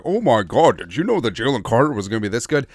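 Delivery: hammed-up astonishment; mock freak-out. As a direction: gush in exaggerated disbelief. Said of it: "everyone's freaking out".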